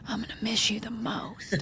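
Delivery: hushed secret goodbye to the dog; husband's sneaky whispered favorite. Retold or imitated. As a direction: whisper it so the wife won't hear. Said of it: "look at Dude and be like".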